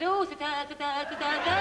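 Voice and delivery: mild mock stutter; stuttering woman. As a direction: trip on da repeatedly. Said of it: "she stuttered".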